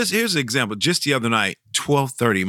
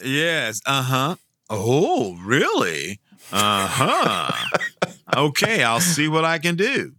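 drawn-out, higher mock interest; faking interest; 4 semitones higher, slower than usual. Santa humoring a child over an unknown toy, mock interest. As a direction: nod along as if you know the toy. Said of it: "You just gotta fake it".

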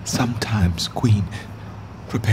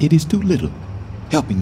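bitter outburst; 8 semitones higher, much faster than usual. Acted. Richard cursing Northumberland.

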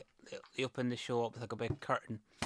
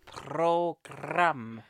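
Programme drawn out, a little louder; insistent; 4 semitones higher, 5 dB louder than usual. Real, not acted. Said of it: "insisting on his word".

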